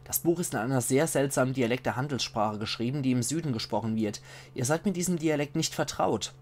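measured, carefully articulated read-aloud; book narration. A narrator's reading. Player reading a found book's notes to viewers, measured narration. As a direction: read it out like a storyteller.

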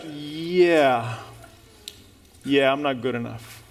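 resigned mumble. Retold or imitated. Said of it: "So you're like".

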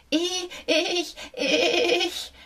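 hohe, zitternde Mäusestimme mit nervösem Lachen; zitternde Mausstimme. A narrator's reading. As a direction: stotternd und ängstlich wie eine kleine Maus. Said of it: "begann die Maus mit zitternder Stimme". (ängstlich zitterndes Mäuschen)

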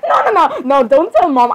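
high, urgent string of refusals; panicked protest. Acted. Sibling begging not to be told on to Mom, panicked. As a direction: blurt it out high in alarm.

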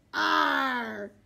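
loud, very slow wail; wailing pirates.

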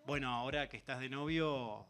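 inch shyly toward the point, pausing between phrases; timid, awkward dad. Retold or imitated. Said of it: "se arrimó muy tímidamente".

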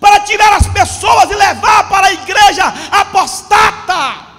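loud, shouted sermon warning; preaching at full force. Acted. Pastor warning his flock that Satan deceives, shouting. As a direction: thunder it at the congregation. Preacher mocks devil image, warns.

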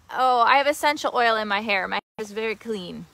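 loud, carrying explanation; speaking up to someone far off; calling out. Real, not acted. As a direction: call it out across the yard. Calling out to visitor.

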